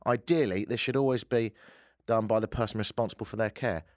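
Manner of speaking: put-on official statement in a Scottish accent; put-on Scottish officialese; Scottish police superintendent. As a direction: read it as a Scottish police chief. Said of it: "Scottish Police Chief Superintendent Mike Flynn".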